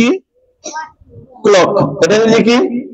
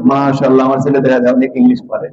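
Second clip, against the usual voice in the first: proud mother; 6 semitones lower than usual. Pretend. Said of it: "আম্মা কি বলবে?".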